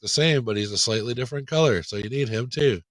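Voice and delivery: loud eager salesman pitch. Acted. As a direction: hype it like a pushy salesman. Acting marketer pitching toys.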